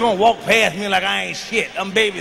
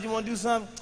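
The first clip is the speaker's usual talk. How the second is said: acted bedroom murmur; hushed private question; 11 dB quieter, much faster than usual. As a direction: ask it quietly, just between partners. Retold private talk with wife.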